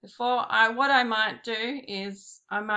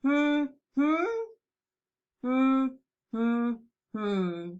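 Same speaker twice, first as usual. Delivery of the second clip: humming syllable beats; 4 semitones higher, much slower than usual. Shown as a demonstration. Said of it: "Five syllables".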